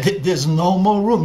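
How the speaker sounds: grieving father confirming the worst; heartbroken father. Acted. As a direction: lay it down like a final verdict. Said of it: "And the father began to weep".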